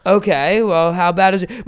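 unruffled mom checking on her son; imitating a composed mother; calm mom. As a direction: ask it evenly, no alarm at all. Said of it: "she's just so calm".

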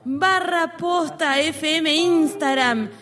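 high, slow radio announcer read; hammy AM radio plug. Pretend. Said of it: "como una radio AM". (locutor de radio AM)

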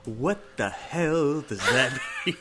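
slow, breaking into laughter mid-line; slowed line that dissolves into a laugh; laughing through the line. Retold or imitated. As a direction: try to say it but crack up. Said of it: "just had to repeat the line".

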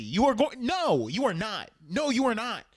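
mock-exasperated scolding, each word stressed; emphatic refusal. Teller scolding Gene over attacking the pirates, emphatically exasperated. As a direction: shut the plan down firmly.

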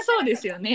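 standard-Japanese そうですよね, amused; standard Japanese intonation. Shown as a demonstration. Friend showing the standard version, standard-Japanese そうですよね. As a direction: say そうですよね with standard Tokyo pitch pattern. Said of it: "標準語は".

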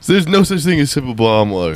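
high-pitched stand-up comic imitation; Hannibal Buress. Podcaster doing the one comedy bit they know, comic impersonation. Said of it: "I can't do an Hannibal Buress impression".

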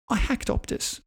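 high, breathy mock-secret whisper. Kid whispering a secret confession to mum.

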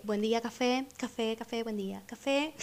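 soft, fading, shy vendor call; timid calling. Retold or imitated. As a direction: barely dare to call out. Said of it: "empecé muy tímidamente".

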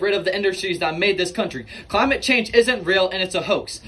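angry insistence. Acted. Coal guest angrily closes debate.

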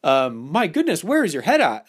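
lightly hammed-up prim shock; playful pretend outrage; mock innocent. Shown as a demonstration. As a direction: play the scandalized good Catholic, teasing. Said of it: "I would say things like that extremely playfully".

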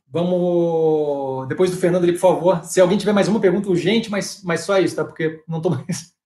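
tired, worn-out voice giving out. Real, not acted. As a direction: speak as your voice gives out. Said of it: "minha voz tá acabando".

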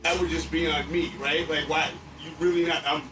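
angry rant. Retold or imitated. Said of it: "now I'm mad".

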